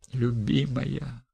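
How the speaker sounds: slow, breathless endearment; gasping. Acted. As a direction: gasp it out. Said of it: "задыхался он".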